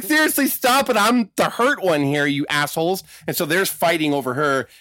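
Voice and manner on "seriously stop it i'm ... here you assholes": high-pitched mock pleading, easing down; exasperated protest. Elizabeth on the gurney to fighting men, mock exasperated protest. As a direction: imitate an injured woman scolding two brawlers.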